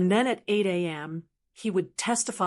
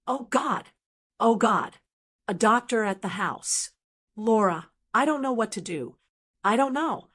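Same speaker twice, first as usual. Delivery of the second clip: senile panic. Acted. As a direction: play a lost old man falling apart. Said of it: "a masterpiece of senile panic".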